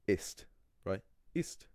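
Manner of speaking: ist with a plain clear s; correct German ist. Shown as a demonstration. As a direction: say ist the proper German way, s as in sister. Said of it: "I S T".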